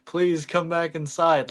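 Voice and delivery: imitated tearful plea; retold crying. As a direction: beg like a crying kid, lightly acted. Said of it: "and I'm, like, crying".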